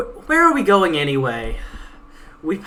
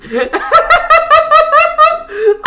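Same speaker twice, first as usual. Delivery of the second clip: loud, high burst of laughter; big laugh; 12 dB louder than usual. Real, not acted. Reader cracking up at the character's joke, a loud high laugh.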